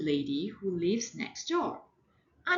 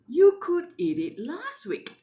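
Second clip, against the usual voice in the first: a hint of a firm mother, higher and louder; mommy voice; 9 semitones higher, 8 dB louder than usual. Mother coaxing her fussy daughter, lightly voiced. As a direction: coax like a patient mom. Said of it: "And Mommy said".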